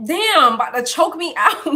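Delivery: laughing and wheezing after choking. Real, not acted. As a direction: laugh while catching breath.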